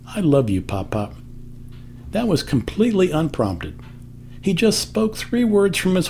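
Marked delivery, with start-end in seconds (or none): 0.1-1.1 choked-up tender. Retold or imitated. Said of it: "It even chokes me up to say it".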